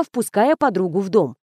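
usual speaking voice

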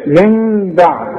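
من بعد slowly with nasal hum; slow tajweed demo of من بعد; correct iqlab. Shown as a demonstration. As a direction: say من بعد with the noon turning to a humming meem, lips closed lightly. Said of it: "هيحصل انفراط في الشفايف".

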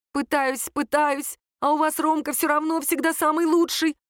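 high-pitched, hurt accusation; worked-up, resentful outburst; bitter complaint. A narrator's reading. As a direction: pour out the old grievance. Sister accuses parents of favouritism.

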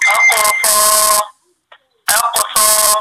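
أقصى recited slowly, final aa held long; madd kept on stopping. Shown as a demonstration. Teacher showing the stop, long final vowel. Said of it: "لما بقف عليها بقول".

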